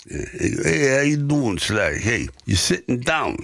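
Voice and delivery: a hint of a Bronx agent calling with good news; Bronx accent. Agent phoning the actor with big news, light Bronx accent. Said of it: "'cause he has his Bronx accent".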